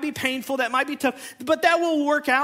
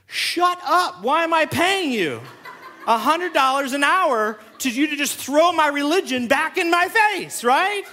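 higher, laughing, playful indignation; laughing mock protest; 4 semitones higher, 4 dB louder than usual. Pastor to his counselor, laughing mock protest. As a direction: protest through laughter, half joking.

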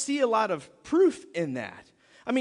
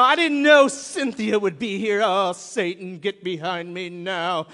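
mock surprise; 2 semitones lower, 6 dB louder than usual. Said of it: "You know".

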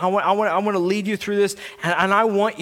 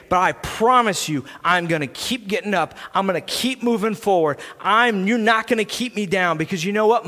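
trash-talk your opponent like a wrestler; wrestling promo; 3 semitones higher than usual. Shown as a demonstration. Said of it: "You're gonna give the WrestleMania promo of your life".

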